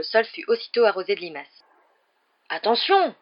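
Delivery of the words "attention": higher, louder roar of warning. Acted. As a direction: bellow to save the pumpkins. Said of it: "rugit Hagrid".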